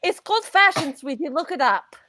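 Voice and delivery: sassy retort. Acted.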